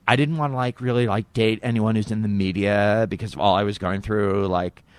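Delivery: lightly put-on girly filler-word ramble; Monica Lewinsky. Monica explains not dating media people, lightly mocked voice. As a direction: ramble with a hint of a young woman's lilt. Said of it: "she doesn't talk like that".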